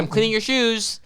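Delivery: high pushy shoe cleaner; the shoe cleaner pushing his service, high; mock shoe cleaner. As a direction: offer a shoe shine, pitched high.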